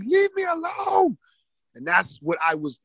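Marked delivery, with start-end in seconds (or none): 0.0-1.2 very high, drawn-out whining wail; acted kid's high, stretched-out protest; viciously annoyed. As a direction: wail it like a pestered kid. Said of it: "viciously annoying, and you're like".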